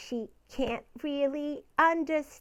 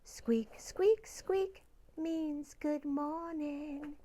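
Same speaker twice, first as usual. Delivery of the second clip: soft whisper; 7 dB quieter, slower than usual. Acted. Soft song lines.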